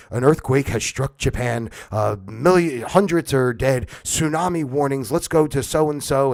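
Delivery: hammed-up disaster bulletin; mock news report. Imitating the anchor announcing a disaster, mock grave. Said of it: "let's just take, uh, Japan".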